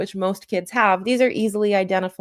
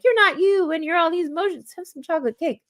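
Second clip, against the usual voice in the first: ad-style parody line; 9 semitones higher, faster than usual. Retold or imitated.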